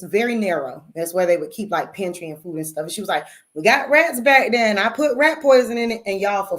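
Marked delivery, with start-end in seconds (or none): 3.5-6.0 stern warning. Retold or imitated. Grandma warns about rat poison.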